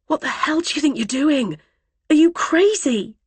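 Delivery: loud, high, frantic yell; panicked shouting. Acted. Trapped woman yelling at the driver in panic. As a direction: scream at him to stop.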